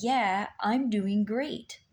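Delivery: slow, mildly imitated husband saying all is fine; imitating husband. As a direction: draw it out calmly, as he did. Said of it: "say it like that".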